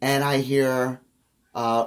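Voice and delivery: usual speaking voice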